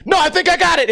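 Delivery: high-pitched, urgent call back; urgent retold shout. JoJo answers on the moving coaster, high urgent call. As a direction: imitate a friend calling over the ride.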